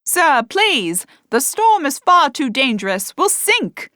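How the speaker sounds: high, loud desperate plea; pleading. A narrator's reading. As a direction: beg him over the storm. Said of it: "the man implored again".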